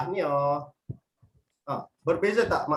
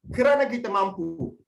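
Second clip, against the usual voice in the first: fast delivery. Shown as a demonstration. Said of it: "yang cara laju".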